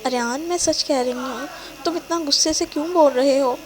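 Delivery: upset, lightly voiced tears; tearful pleading. Girlfriend pleading with angry boyfriend, a touch tearful. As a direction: plead through mild tears. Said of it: "وہ مزید روتے ہوئے کہتی ہے".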